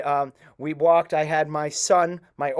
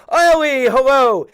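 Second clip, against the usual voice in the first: joyful greeting; 8 semitones higher, 9 dB louder, slower than usual. Retold or imitated. Rabbis greet Ellie loudly.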